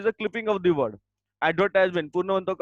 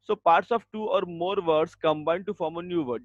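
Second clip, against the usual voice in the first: dictation; 2 semitones higher, much slower than usual. Shown as a demonstration. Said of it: "dictating definition".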